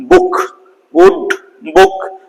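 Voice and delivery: ಬುಕ್ and ವುಡ್ with a quick, high-pitched short u; short, abrupt vowel. Shown as a demonstration. Teacher showing sudden pronunciation, short abrupt u in ಬುಕ್, ವುಡ್. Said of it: "sudden ಆಗಿ pronunciation ಆಗುತ್ತೆ".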